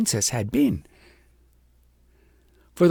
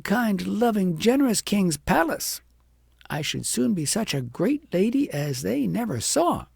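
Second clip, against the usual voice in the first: a hint of a conceited young girl dreaming of grandeur; vain girl boasting; 3 semitones higher than usual. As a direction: puff yourself up like a spoilt child. Agnes boasting to herself.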